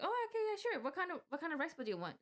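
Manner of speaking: high, chirpy cashier greeting; bright customer-service voice. Retold or imitated. Cashier greeting a customer, high and chirpy. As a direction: put on a cheery service voice. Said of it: "I was like".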